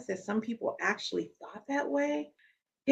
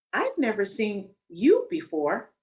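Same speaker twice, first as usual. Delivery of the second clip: slow, with "you" pressed harder than the rest; stress on you; 3 dB louder, slower than usual. Retold or imitated. Woman in the elevator quizzing a stranger, leaning on "you". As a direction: lean on "you" as if the listener doesn't belong. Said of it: "the emphasis here is on the word you".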